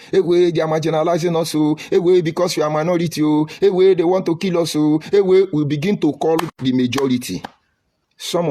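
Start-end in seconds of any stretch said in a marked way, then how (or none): 0.1-5.5 mock social media wail. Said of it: "let's hit the social media".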